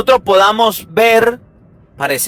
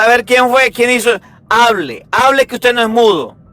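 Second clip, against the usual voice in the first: impatient parent; 4 semitones higher than usual. Retold or imitated. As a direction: push the shy child to answer. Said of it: "mi papá me hacía una pregunta".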